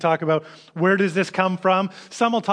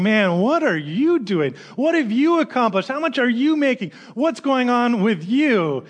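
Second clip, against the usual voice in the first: nagging inner voice; 4 semitones higher than usual. Retold or imitated. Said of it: "that little voice in the back of my mind going".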